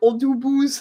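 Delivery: "autobus" said in a silly, goofy voice. Recalling the Spanish word for bus, saying autobus in a silly way. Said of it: "Every time I I have to say it silly".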